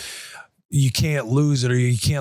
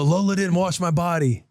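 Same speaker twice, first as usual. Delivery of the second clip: mock yell; 5 semitones higher than usual. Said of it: "She's yelling at Lola".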